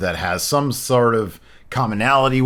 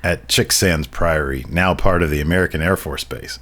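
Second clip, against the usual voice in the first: haunting voice; 2 semitones lower than usual. Acted. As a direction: read it like a grim ghost tale. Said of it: "like, a very haunting voice".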